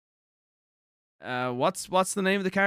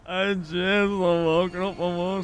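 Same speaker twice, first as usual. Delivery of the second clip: slow, thick Irish country drawl; broad Irish accent; much slower than usual. Shown as a demonstration. Streamer redoing a game line in family's accent, broad Irish. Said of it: "like, nearly the accent where I'm".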